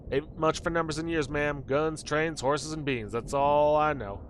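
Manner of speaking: lightly voiced folksy cowboy; old cowboy. Old cowboy admitting ignorance to ma'am, lightly folksy cowboy. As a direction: draw out the last words like an old cowboy.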